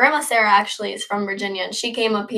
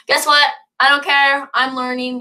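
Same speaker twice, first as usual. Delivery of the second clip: defiant; 4 semitones higher than usual. Shown as a demonstration. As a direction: shrug off the judges with sass. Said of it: "Be like".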